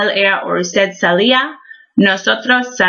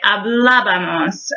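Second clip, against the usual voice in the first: hablábamos with emphasis on "blá"; stress on second syllable. Shown as a demonstration. Teacher recalling her pronunciation, hablábamos stressed on "blá". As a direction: lean on the first A of the ending in hablábamos. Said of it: "um, I pronounced it".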